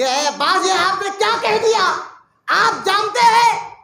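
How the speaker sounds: high, loud and slow, wailing in grief; a hurt friend crying out his love; weeping plea. Acted. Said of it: "حضرت عمر رونے لگے".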